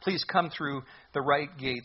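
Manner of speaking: slow, drawn-out imploring; earnest, unhurried plea; pleading. Retold or imitated. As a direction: gently beg them, stretching each "please". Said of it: "he would be pleading with anyone".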